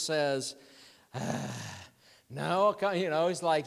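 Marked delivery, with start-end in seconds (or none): 2.3-2.8 exasperated sigh. Acted. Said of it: "he must be exasperated".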